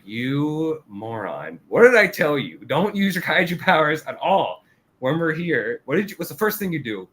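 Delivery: high, exasperated mock scolding; a fed-up partner scolding the new guy. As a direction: nag him like an annoyed senior. Reynolds scolding Kafka, retold.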